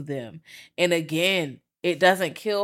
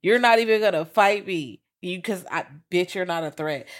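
indignant; 3 semitones higher, 4 dB louder than usual. Retold or imitated. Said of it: "I was just like".

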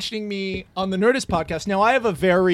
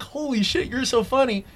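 starstruck gush; 4 semitones higher than usual. Retold or imitated. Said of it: "moment of, like, freaking out".

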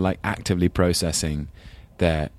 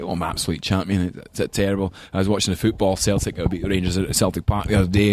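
light imitation of a grandfather's strong Glaswegian accent. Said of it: "had a really strong Glaswegian accent".

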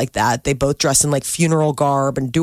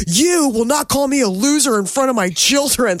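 higher, offended mock dad voice; indignant goth dad; 6 semitones higher than usual. Goth dad scolding the hockey mom, mock indignation. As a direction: play the goth father bristling at the insult. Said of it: "this dad's like".

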